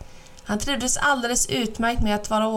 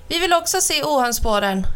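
higher hen voices, clucky and eager; cackling hens; 5 semitones higher than usual. Acted. Hens cackling to the old man, eager to see. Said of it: "kacklade hönorna".

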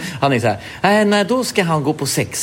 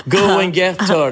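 mock cheer; 6 semitones higher than usual. Friend cheering him on.

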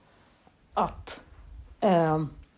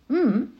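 demo listening hum; 5 semitones higher than usual. Shown as a demonstration. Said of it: "sända ut små ljud bara så här".

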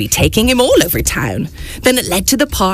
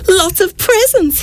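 a little mouse gasping at the presents; gasped; 10 semitones higher than usual. Acted. Mouse sees the presents under the tree, gasping with wonder. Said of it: "he gasped".

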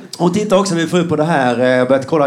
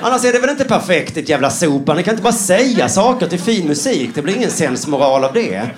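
comic outburst at the sitcom moral; mock outrage; 4 semitones higher than usual. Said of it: "Och man bara".

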